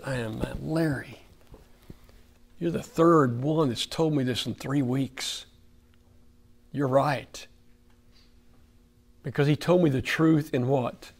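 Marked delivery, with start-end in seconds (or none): 0.0-7.5 subdued, resigned retelling; hung-head admission. Retold or imitated. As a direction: quietly own up, as if with head hung. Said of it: "I hung my head and said".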